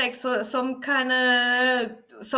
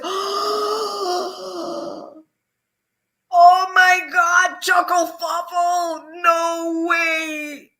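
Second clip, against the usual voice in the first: astonished shout; 5 semitones higher, 4 dB louder, much slower than usual. Real, not acted. Surprised at pastry chef coincidence.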